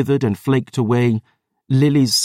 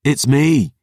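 roaring; 4 semitones higher than usual. Acted. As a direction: shout to reach her. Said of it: "he roared".

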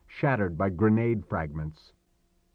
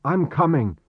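higher, louder call; shouted; 7 semitones higher, 6 dB louder than usual. A narrator's reading. Chris to the boy vanishing into undergrowth, shouted. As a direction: call after someone running off. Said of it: "he shouted to the boy".

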